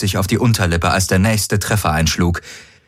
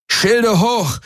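much higher shouted command; roaring order; 14 semitones higher than usual. A narrator's reading. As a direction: bellow it across the bridge. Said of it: "brüllte Garland".

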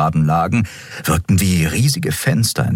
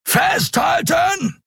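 very high drawn-out yell; roaring; much slower than usual. A narrator's reading. Keru yells to the crew to brace for impact. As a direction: bellow the warning slowly. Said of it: "brüllte Keru".

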